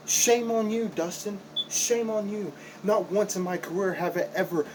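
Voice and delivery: high, sharp reproach; scolding. Acted. Wrestler scolding his old trainer, high and sharp. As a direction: pitch leaps up to shame him.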